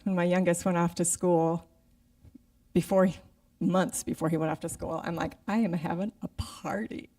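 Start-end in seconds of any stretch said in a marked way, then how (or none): 5.5-7.1 whispered secret announcement; playful retold whisper; conspiratorial whisper. Announcing her empty nest party.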